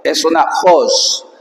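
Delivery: "jos" said slowly with a strong aspirated j sound; jos with a rough breathy h. Shown as a demonstration. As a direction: Greek teacher demonstrating rough breathing on "jos". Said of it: "El espíritu indica que es jo".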